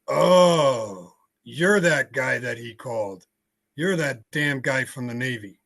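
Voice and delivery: retold accusation, understated after a drawn-out start; retold belligerence. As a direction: imitate a mildly belligerent woman recognizing someone. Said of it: "she's a little belligerent".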